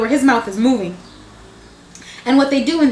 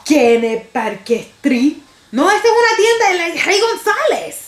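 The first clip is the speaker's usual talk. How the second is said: hammering the name home, higher each time; more emphasis; 6 semitones higher than usual. Retold or imitated. Grandmother correcting her grandchild, insistent and higher. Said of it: "said it with more emphasis".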